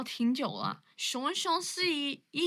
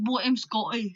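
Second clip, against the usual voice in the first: put-on Scottish accent; Scottish accent impression; 3 semitones lower than usual. Shown as a demonstration. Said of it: "like, Scottish".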